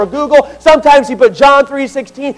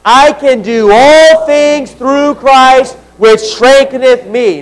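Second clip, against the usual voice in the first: slow group recitation; much slower than usual. Shown as a demonstration.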